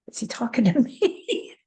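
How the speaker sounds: whispered aside in disbelief, voice gone breathless; stunned whisper. Retold or imitated. Stunned inner thought, whispered aside.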